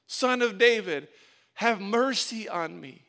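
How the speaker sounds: loud, stretched-out plea; drawn-out retold cry for mercy. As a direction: imitate a beggar insisting over the crowd. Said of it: "He shouted louder".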